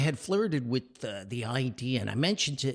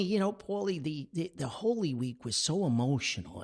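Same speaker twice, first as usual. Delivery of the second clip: lightly raised mother's voice; mom's voice; 6 semitones higher than usual. Retold or imitated. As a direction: voice his mum, a bit higher. Son voicing his mother.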